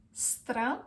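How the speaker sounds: stră-i-nă-ta-te in five separate pieces; long gaps inside stră-i-nă-ta-te; syllable by syllable. Shown as a demonstration. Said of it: "So the correct pronunciation is".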